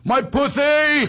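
high, drawn-out lisped shout, "puthy" for Percy; imitating a small child crowing "My pussy" with a TH; toddler's gleeful holler. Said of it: "Right at his mother's crotch going".

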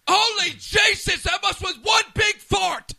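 high, slow excited shout. Real, not acted. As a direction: yell it out in disbelief. Shouting at the wild goal.

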